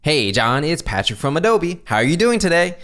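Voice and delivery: high, over-energetic fake enthusiasm; fake salesperson. Shown as a demonstration. Fake salesperson greeting a prospect, slimy false enthusiasm. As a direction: gush it insincerely, slimy and sleazy. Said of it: "what a fake salesperson will sound like".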